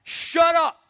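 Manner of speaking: high, loud "Shut up"; sharp shut up. Acted. Jesus silencing the storm bluntly, loud. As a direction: snap it at the storm. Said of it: "it could even be like a".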